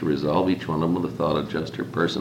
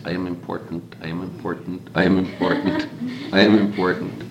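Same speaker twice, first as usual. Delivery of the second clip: tiny squeaking voice. Acted. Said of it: "squeaking in a tiny voice".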